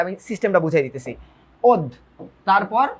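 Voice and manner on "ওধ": ওধ as one closed syllable, "odh"; syllable-by-syllable pronunciation. Shown as a demonstration. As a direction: sound out ওধ on its own for students. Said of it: "এটার উচ্চারণ হচ্ছে ওধ".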